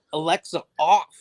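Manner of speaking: mock yell at a smart speaker, building; retold yell. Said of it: "dead sleep and yell".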